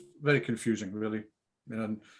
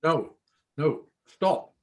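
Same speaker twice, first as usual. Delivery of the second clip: frightened refusal; 4 semitones higher, 5 dB louder, much slower than usual. Acted. Tony recoils from unwanted advance.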